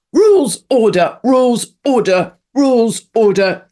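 put-on high, loud, barked German-accented commands; mock German barking. Mocking Germans, barking rules in a German accent. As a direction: bark rules like a caricature German officer.

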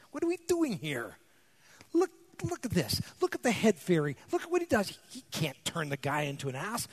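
mock grumbling husband. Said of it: "I start going".

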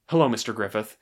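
understated solemn greeting; gently grave, with reverence; solemn, reverent. Retold or imitated. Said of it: "very solemn, kind of reverent way".

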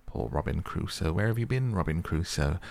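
lightly voiced parrot call, rising on where have you been; parrot imitation. Scrooge recalling the parrot greeting Robin Crusoe, lightly mimicked parrot call. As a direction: mimic a pet parrot's squawked greeting, only a hint of it. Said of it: "it was the parrot".

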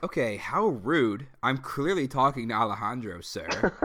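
playfully affronted scolding; mock indignant. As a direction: tell off an intruder with hammed-up indignation. Acted indignation at interrupting rival suitor.

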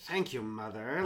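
low, soft mock thanks; dry, sarcastic imitation. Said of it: "he's kind of sarcastic, too".

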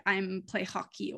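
lightly put-on Russian accent; bad Russian accent. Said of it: "my very bad Russian accent".

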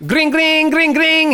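high sung ring-ring; imitated phone ring. Host imitating a phone ring to start the ad, high. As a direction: chirp it like a phone ringing. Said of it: "you know what that sound means?".

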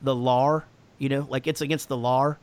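put-on New Jersey accent, "lar" said with an added R at the end; a light New Jersey accent, "law" said as "lar"; mock New Jersey accent. Poking fun at the New Jersey accent, lightly voiced. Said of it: "New Jersey accent ... put random R's".

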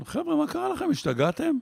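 high, alarmed shout at the workers; retold shout. Kindergarten teacher yelling at the builders, high and alarmed. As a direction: yell up at them in alarm. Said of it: "ואני רץ וצועק".

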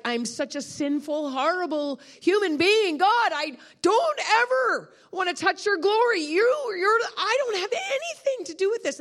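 high, wailing self-reproach; re-enacted anguish, pleading and loud; acted sobbing confession. Preacher retells confessing her guilt to God, acted sobbing confession. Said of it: "I'm sobbing".

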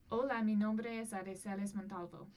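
reading a Spanish text aloud; careful read-aloud in Spanish; reading foreign language. Shown as a demonstration. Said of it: "I'm gonna try to read it in Spanish".

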